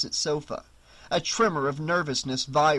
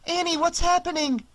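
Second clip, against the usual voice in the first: high, loud frightened question; alarmed; 4 dB louder than usual. Acted. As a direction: demand answers in a panic. Alarmed friend on phone.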